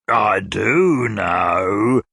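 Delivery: high, very slow, swooning cry; lovesick old gentleman. A narrator's reading. Old gentleman wooing Mrs Nickleby, swooning. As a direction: croon it like a mad suitor.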